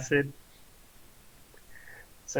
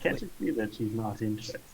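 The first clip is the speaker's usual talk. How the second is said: quieter, lower, fast stern warning; hero warning; 3 semitones lower, 7 dB quieter, faster than usual. Acted. Zargus to the flirt, low stern warning. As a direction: step in and warn him off, low and quick. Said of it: "and say".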